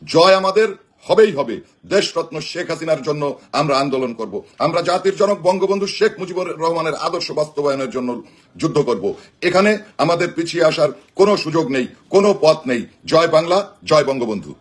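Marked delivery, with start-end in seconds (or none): 0.1-1.6 loud rallying cry; rallying shout. Real, not acted. 13.1-13.6 slogan shout. Real, not acted. Closing slogan at rally.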